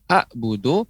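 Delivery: "a'budu" with a plain glottal stop like alif; ain keliru. Shown as a demonstration. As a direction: cut the first vowel of "a'budu" short, no throaty ain. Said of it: "maka dia seperti a, alif". ("a'budu" keliru, ain dibaca seperti hamzah)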